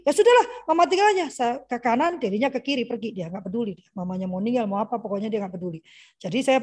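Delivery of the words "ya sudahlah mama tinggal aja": put-on higher, louder and fast careless child voice; younger child. Younger son Deli brushing off his mother, quick high careless kid voice. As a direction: toss it off like a kid who doesn't care. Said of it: "Kalau Deli".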